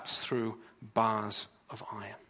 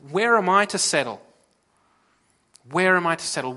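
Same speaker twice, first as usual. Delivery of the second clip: anguished cry; 4 semitones higher, 7 dB louder than usual. Acted. Voiced anguished plea to God.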